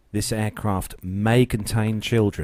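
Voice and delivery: slow formal warning read; deadpan warning notice. Retold or imitated.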